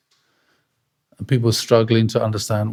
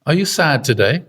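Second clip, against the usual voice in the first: Father's challenge; 5 semitones higher than usual. Retold or imitated. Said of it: "this is what Father said".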